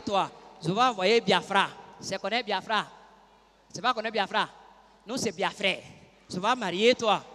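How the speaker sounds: put-on low, soft broken French with a Nigerian accent; Igbo Nigerian accent. Igbo suitor courting her in broken French, low Nigerian accent. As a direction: pitch the proposal in pidgin French, Igbo-accented. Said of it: "Il s'appelle Clastus Uche".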